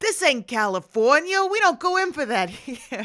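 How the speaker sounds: cartoonish New York accent. Quoting characters in something made by Californians, leaning on stereotypes: cartoonish New York accent. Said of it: "the most ridiculous, cartoonish New York accent".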